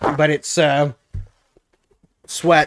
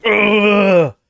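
disgusted groan; 6 semitones higher, 4 dB louder than usual. Retold or imitated. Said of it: "and just like".

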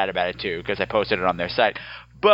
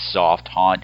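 suggestive soft haunt; 5 semitones lower, 3 dB louder than usual. Shown as a demonstration. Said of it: "make a dirty joke about Mickey's".

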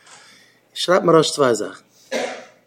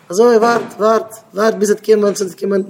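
lightly acted, higher-pitched stalling voice; 5 semitones higher, faster than usual. Speaker plays someone putting off work, mock stalling. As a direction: put off the listener in a raised pitch. Acts out someone told to wait.

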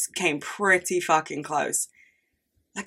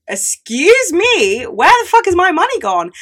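outraged disbelief; 11 semitones higher, 7 dB louder than usual. Retold or imitated. Reacting to payslip deductions.

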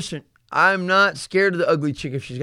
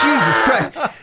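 shocked exclamation; 6 semitones higher, slower than usual. Retold or imitated. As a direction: blurt it out, laughing in disbelief. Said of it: "My friends were like".

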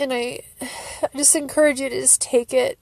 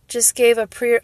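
ordinary talk, nothing marked

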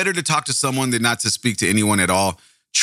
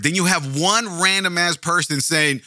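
ordinary talk

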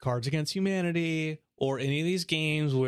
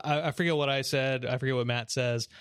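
ordinary talk, nothing marked

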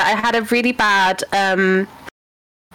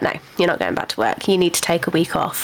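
lower, firm, quick doctor voice; a doctor ordering her to stay home, in a lower voice; stern doctor; 3 semitones lower, faster than usual. Retold or imitated. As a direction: lay down the law as the doctor. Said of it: "He was like".

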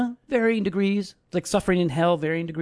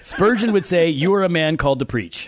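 stifled giggles; 4 semitones higher, 4 dB louder than usual. Real, not acted. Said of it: "I'll try not to laugh".

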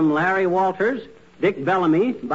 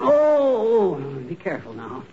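mock pained groan; slower than usual. Husband playing sick to Molly, hammed-up groaning. Husband fakes pain on couch.

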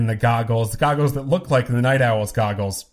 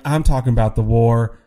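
lightly attempted politician's accent; a half-hearted stab at the senator's accent; Keene's accent. Politician answering an interviewer, in a badly faked accent. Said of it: "I don't do a good accent".

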